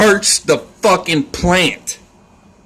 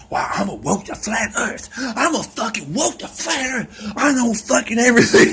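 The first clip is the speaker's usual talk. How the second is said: high sneering know-it-all, softer then rising; mock smug flat-earther; 9 semitones higher, 3 dB quieter than usual. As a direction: sneer it like a smug conspiracy nut. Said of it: "'Cause they think, like".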